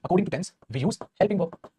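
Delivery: drawn out very slowly, word by word; slow dictation. Shown as a demonstration. Teacher to class, very slow dictated rule. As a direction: spell the rule out slowly for note-taking.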